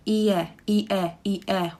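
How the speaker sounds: i and e split apart, strong pause between them; separated ie. Shown as a demonstration. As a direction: pronounce i and e as two separate sounds, ie. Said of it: "when you try to pronounce it".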